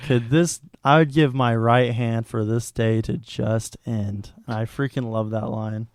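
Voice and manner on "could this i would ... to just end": frustrated. Retold or imitated. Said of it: "he's just so frustrated".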